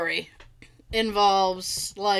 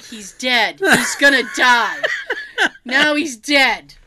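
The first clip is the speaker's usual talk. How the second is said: laughing doom; 6 dB louder, slower than usual. Retold or imitated. Thinking dad is doomed.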